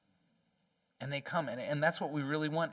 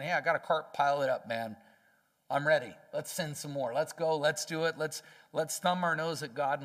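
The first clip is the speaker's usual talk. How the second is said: louder, cocky let's-go egging on; mock eager sinner; 4 dB louder than usual. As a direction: egg the gang on like a reckless sinner. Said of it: "and they're saying".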